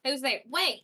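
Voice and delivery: calling out. Acted. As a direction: shout for them to stop. Calling after fleeing figure.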